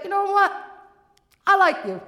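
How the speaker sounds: a hint of a slick bookie; lightly voiced bookie; bookie Tony. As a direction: friendly menace.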